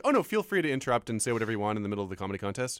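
fast sarcastic mock politeness. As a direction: rattle off fake permission, dripping sarcasm. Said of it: "doing a sarcastic thing".

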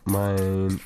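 soft unvoiced whisper; giggly prank whisper. Real, not acted. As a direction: whisper it into the mic. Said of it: "I'm, like, whispering into the mic".

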